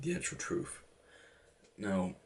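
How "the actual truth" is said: higher, whispered punchline; whispered aside. Real, not acted. A hushed, higher aside about the truth. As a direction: drop it as a hushed joke.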